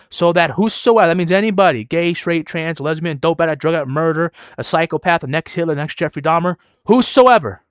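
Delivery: building list to a loud peak; emphatic preaching. Real, not acted. Preacher telling listeners salvation is for anybody, emphatic preaching. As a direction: sweep everyone in, then ring out the last word. Preaches who may be saved.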